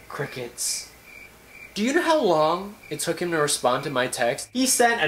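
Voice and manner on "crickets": crickets breathed out, almost silent; hushed, trailing echo; fading deadpan whisper. Pretend. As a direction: let the word die away into nothing. Repeating, fading to nothing.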